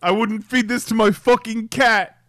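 high, loud mock outrage; mock chef tirade. Chef rejecting a cook's risotto, in mock fury. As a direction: berate the cook in hammed-up anger.

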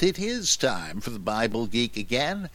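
put-on grand old-fashioned theatrical declaiming; hammy stage actor. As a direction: boom it out like a Shakespearean ham. Mock archaic podcast opening.

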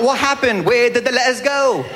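put-on English accent with swallowed T's; puzzled Englishman, English accent, T's missing; mock English accent, glottal stops; T-dropping English accent. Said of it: "they ignore the letter completely".

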